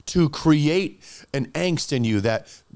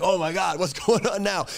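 astonished audience; 6 semitones higher than usual. Retold or imitated. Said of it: "and everyone's like".

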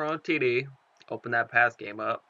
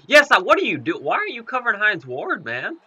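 loud, high exasperated shout at the screen; frustrated yell; 9 semitones higher, 7 dB louder than usual. Real, not acted. Gamer yelling at his defender for bad coverage, exasperated shout.

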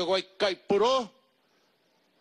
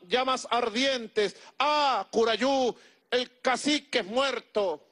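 a warrior wailing for his fallen chief; grieving warrior; 6 semitones higher than usual. A narrator's reading. Warrior telling Curayú the chief has died, lamenting. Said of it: "warrior mourns the fallen chief".

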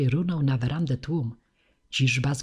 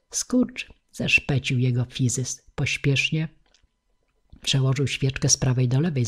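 plain reading voice

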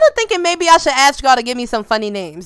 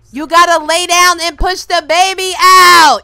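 urging; 2 semitones higher, 5 dB louder than usual. Pretend. Coaching Sim through labor.

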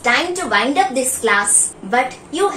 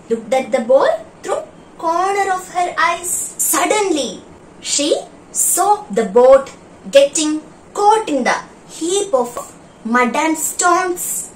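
story read aloud. Acted. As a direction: read it like a gentle class storyteller. Teacher reads story to class.

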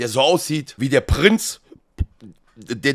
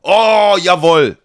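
excited tourist cheer; 7 dB louder, much slower than usual. Acted.

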